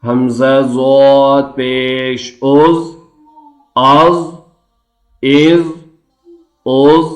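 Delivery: slow drawn-out chant for students to repeat; slow chanting teacher; recitation drill. Shown as a demonstration. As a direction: model each syllable slowly. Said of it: "Repeat after me".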